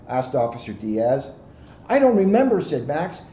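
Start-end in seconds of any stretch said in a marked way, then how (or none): 1.9-2.6 high, loud tearful whine; a lost child sobbing it out; little monster still crying. Acted. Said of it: "He was still crying".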